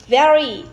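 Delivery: "very" hit hard and loud; emphasize "very" with extra force; stress on very. Shown as a demonstration. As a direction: lean loudly on "very". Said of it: "more stress than boring".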